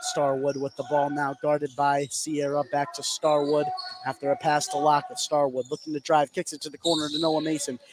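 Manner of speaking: live basketball call, building as the shot goes up; play-by-play. Real, not acted. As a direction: call the action as it happens.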